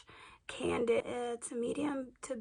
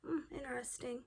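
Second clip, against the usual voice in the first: whispered; 5 dB quieter than usual. Real, not acted. Reading the product label.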